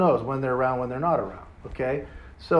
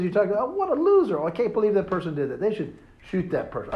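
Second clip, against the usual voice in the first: mocking indignant rant; 5 semitones higher than usual. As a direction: ham up the self-righteous TV rant. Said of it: "My wife goes".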